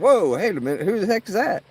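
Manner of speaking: shocked. Retold or imitated. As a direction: caught off guard mid-laugh. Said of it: "I was like".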